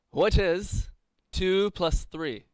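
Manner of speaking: high, slow quizmaster voice; hammy stage actor. Acted. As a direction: ham up the quiz question slowly. Quizmaster voice, mock grand.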